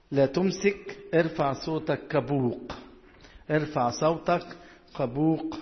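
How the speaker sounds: slow, measured verse reading; drawn-out words with deliberate pauses; scripture reading. Real, not acted. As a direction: read the verse out phrase by phrase.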